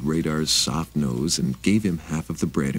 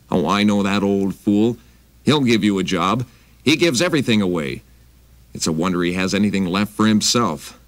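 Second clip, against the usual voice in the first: a touch of a gruff hostess; big lady voice; 3 semitones higher, 4 dB louder than usual. Acted. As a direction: demand it like a wary housewife. Big lady's voice.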